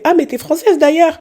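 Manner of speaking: put-on teasing the French girl at the cloakroom; imitating the bouncer. Bouncer returning her coat, mock surprise. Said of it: "qu'il me fait".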